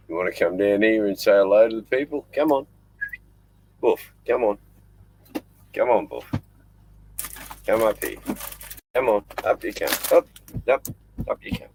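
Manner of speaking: high, eager coaxing calls; coaxing the dog. Real, not acted. Man coaxing his dingo up to the camera, eager high calls. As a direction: urge the dog up with rising calls.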